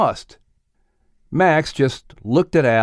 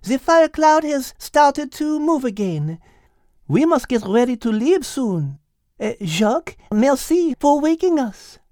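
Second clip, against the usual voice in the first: put-on higher French accent, amused; French-accented Liz; 13 semitones higher than usual. Liz explaining the rooster, French accent. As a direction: explain it with Gallic ease.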